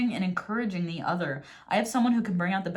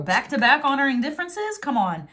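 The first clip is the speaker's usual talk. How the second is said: higher, rising in disbelief; incredulous; 4 semitones higher than usual. Real, not acted. Tarot reader amazed by a repeated card message, incredulous. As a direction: question it as an amazing coincidence.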